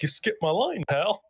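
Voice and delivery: hard-boiled detective growl, tough and clipped; gumshoe voice. Shown as a demonstration. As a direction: play it like a tough noir private eye. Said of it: "I just continued going on with the gumshoe voice".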